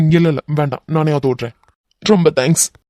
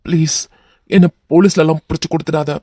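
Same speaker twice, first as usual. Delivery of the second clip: pleading, louder on the plea; begging; 3 dB louder than usual. Acted. Captive man begging the hero, pleading. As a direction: begs to be spared the police.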